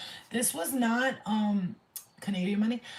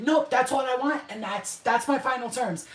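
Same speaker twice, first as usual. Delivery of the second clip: louder acted ultimatum; mock take-it-or-leave-it, raised; firm refusal; 4 semitones higher, 5 dB louder than usual. Giving the giant final terms, firm refusal.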